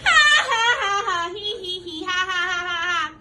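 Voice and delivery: loud, high acted ha ha ha; mocking laughter. Animals in the story laughing at Simon, loud acted laugh. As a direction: laugh at the little cat. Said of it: "They're laughing".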